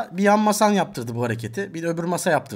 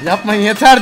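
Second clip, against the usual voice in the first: retold plea; 5 semitones higher, 11 dB louder than usual. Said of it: "diyor adam kanka".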